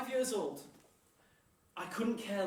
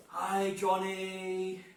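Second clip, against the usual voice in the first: very slow, drawn-out call; mock matchday holler; men shouting greetings; 3 dB louder, much slower than usual. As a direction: stretch the name out across a crowd. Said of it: "middle-aged men all shouting".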